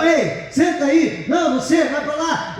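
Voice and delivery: high, lightly mock brusque orders; hint of ordering the men around; bossy with the guys. Husband waving the guys aside, lightly mock bossy. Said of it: "falando com os outros".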